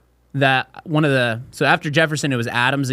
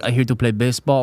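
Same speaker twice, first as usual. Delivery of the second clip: put-on French Canadian accent. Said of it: "all from fucking Quebec".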